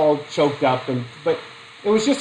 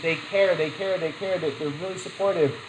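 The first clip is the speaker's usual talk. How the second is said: much softer "they care, they care"; softer caring voice; 6 dB quieter than usual. Shown as a demonstration. Lecturer showing how doctors care with patients, soft and gentle. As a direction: sound like a doctor comforting a patient.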